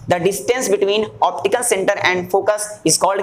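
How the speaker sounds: measured repeat of a definition; slow lead-up to a quiz question; slow dictation. Shown as a demonstration. Teacher prompting students to complete the definition, slow dictation.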